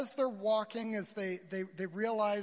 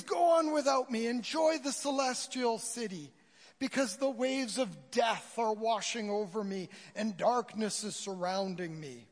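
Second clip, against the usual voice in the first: hammed-up dying speech to a friend; melodramatic farewell; 2 semitones higher than usual. Preacher resumes Christian's drowning farewell, melodramatic. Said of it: "it's really quite melodramatic".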